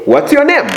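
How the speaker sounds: "name" asked high, then falling; high question. Shown as a demonstration. Teacher modelling the question to a learner. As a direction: ask "What's your name?" brightly up high. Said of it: "you say".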